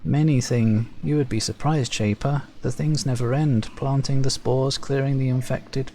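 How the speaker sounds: lightly voiced servant listing chores; dutiful Servile farmer. Servile farmer listing his tasks to the Shaper, dutiful. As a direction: prove he works hard.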